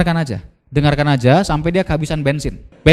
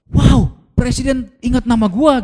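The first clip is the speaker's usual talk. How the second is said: amazed surprise; 6 semitones higher, slower than usual. Retold or imitated. John surprised at president.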